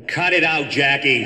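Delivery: mock protest. Brother objects loudly.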